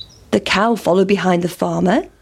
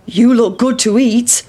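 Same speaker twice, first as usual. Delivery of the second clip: farmer; 2 semitones higher than usual. Acted. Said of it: "said the farmer".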